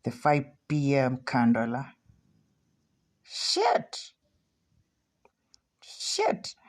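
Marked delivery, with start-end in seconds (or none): 3.2-4.1 startled gasp. Real, not acted. Sudden market move on live trade. 5.8-6.6 whispered curse. Real, not acted. Trade turning against him.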